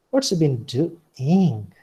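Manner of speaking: slow, "What's" rising then falling; mild suspicion. Shown as a demonstration. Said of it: "suspicion or mockery".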